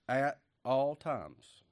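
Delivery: slow, drawn-out "At all times"; preaching at full force. Real, not acted. Preacher driving the point home, slow. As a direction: lean on "all" and stretch it. Answering his own question from the pulpit.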